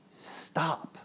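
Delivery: hushed command. Acted. God stilling an anxious believer, hushed command. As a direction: say it softly, firmly. God's voice quoted.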